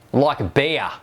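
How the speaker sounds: "Like a bear." in a light Kiwi accent; a touch of New Zealand accent on "Like a bear."; Kiwi beer. Shown as a demonstration. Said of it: "Or if you're in New Zealand".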